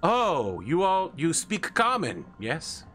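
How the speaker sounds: high, loud, eager goblin voice. Acted. Goblin welcoming visitors to the flesh market, high goblin voice. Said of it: "some sort of goblinoid".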